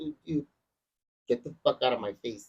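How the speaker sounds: usual speaking voice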